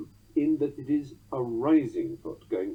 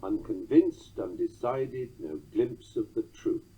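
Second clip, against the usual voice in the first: "Unconvinced, undecided, no glimpse of the truth" in four even beats; measured titty-TUM reading of "Unconvinced, undecided, no glimpse of the truth"; anapestic tetrameter; slower than usual. Shown as a demonstration. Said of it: "listen to this anapistic tetrameter".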